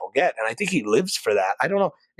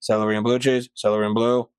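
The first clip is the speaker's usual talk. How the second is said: flat, rote repetition; robotic server voice. Retold or imitated. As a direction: recite it like a machine. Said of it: "like I always do robotically".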